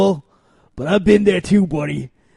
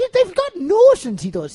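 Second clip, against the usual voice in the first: very high, sing-song Irish granny voice, rural-sounding; 12 semitones higher than usual. Reading out online comments about The Rock's posts: old country Irish granny voice. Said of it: "I read it as an old country Irish granny".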